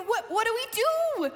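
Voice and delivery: high, stammered helpless question; mock panic. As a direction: act out flustered helplessness. Stranded adults acting out panic.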